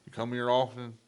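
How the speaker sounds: lightly voiced drunk cowboy. Drunk alter ego chatting at a bar, lightly put-on cowboy. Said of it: "I become a cowboy".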